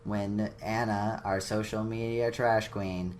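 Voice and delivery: even, middle-of-the-road announcement; studied, uninvested sign-off read; deliberately neutral. Pretend. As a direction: read it out with completely average energy. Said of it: "completely middle ground, all right".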